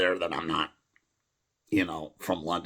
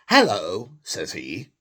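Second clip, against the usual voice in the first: put-on English accent; 4 dB louder, slower than usual. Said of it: "a normal English accent".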